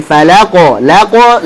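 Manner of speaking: "falaqo" with a light la and heavy qo; thin la, thick qo. Shown as a demonstration. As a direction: keep la thin, then round out a thick qo in "falaqo". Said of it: "lanya tipis dulu, qafnya tebal".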